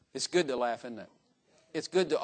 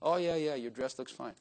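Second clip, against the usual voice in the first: insincere flattery; 3 semitones lower, 4 dB quieter than usual. Pretend. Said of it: "say smooth things".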